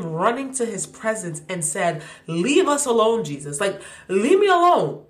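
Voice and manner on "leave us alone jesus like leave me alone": mock demon plea. Demon voiced pleading.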